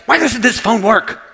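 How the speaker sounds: loud, high, slowed-down exasperation; mock furious yell; mad outburst. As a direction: act out losing your temper at a gadget. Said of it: "I just get mad".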